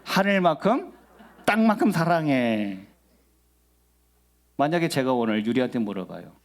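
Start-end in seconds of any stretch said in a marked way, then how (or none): 0.0-2.8 slow, lightly voiced child's answer; a hint of a child declaring love; imitating a child. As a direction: draw it out like a kid's stock answer. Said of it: "그 애들은 뭐라고 보통?".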